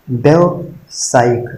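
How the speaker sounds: व्यावसायिक drawn out slowly; slow read-out. Shown as a demonstration. Teacher reading a word slowly to exam students. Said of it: "नहीं होता है".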